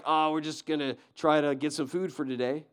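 mock timid mouse. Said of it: "he didn't say, like".

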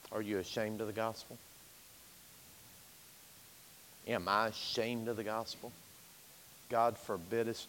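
soft low altar-call voice; quiet pastoral appeal. Real, not acted. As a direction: draw them in gently toward the altar. Quiet invitation after preaching.

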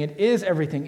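"is" stressed as an emphatic claim. Shown as a demonstration. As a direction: punch the word "is". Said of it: "highlight and circle the word is".

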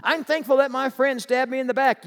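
mock pious believer. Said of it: "they say".

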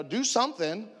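high-pitched exasperated demand; retold crying out. Stranded man demands help from the Lord, mock crying out. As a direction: cry it out in mock desperation. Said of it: "crying out to him going".

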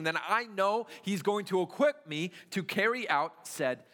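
rising sermon passion; impassioned preaching. Acted. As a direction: preach it out with fire. Preaching builds to full force.

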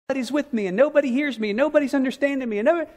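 hurting believer pouring out loneliness; despairing complaint. Pretend. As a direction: complain like someone who feels abandoned.

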